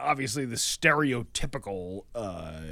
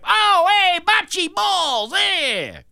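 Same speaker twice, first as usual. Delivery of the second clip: very high, loud Syracuse Italian caricature; North Syracuse Italian accent; 7 dB louder, much slower than usual. Retold or imitated. Imitating North Syracuse Italians at bocce, shouted Italian-American accent. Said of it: "North Syracuse Italians".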